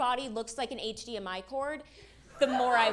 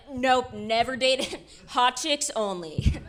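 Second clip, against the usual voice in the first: mock dude voice; 5 dB louder, slower than usual. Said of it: "this man's like".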